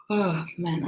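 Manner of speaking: talking through a yawn; words stretched by a yawn. Real, not acted. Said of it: "I'm sorry about the yawning".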